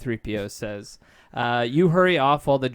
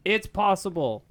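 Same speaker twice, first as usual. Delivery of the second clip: mock yell; 6 semitones higher than usual. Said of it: "Han yells".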